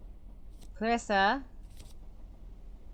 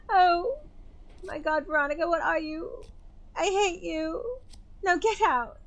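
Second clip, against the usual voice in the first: she wants the intruder gone, voice pitched up and pushed; furious widow Clarissa; 9 semitones higher than usual. Acted.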